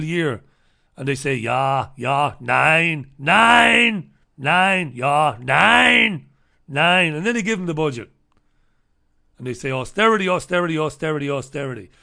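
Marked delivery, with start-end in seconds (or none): 1.3-7.1 broken-English German officials, loud and insistent; hammy German accent chanting nein; mock German accent. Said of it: "with broken English and German accents". 9.7-11.9 put-on chanted austerity in a German accent, fading down; hammy German officials repeating austerity; German bankers lecturing the Irish in a mock German accent. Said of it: "with broken English and German accents".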